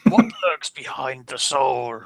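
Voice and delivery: evil amused voice. Acted. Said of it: "softly said in an evil, amused".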